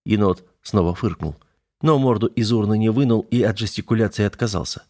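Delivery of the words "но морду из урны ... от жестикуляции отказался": ordinary delivery, nothing marked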